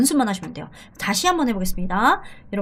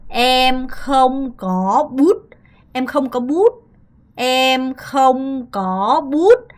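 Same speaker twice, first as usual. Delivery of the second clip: slow pronunciation drill; much slower than usual. Shown as a demonstration. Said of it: "이렇게 발음을 하시면 됩니다".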